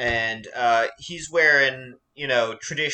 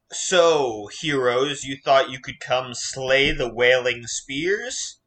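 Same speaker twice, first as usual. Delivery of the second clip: commanding bandit leader; booming voice; slower than usual. Acted. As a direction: boom it like a showman. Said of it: "he booms out".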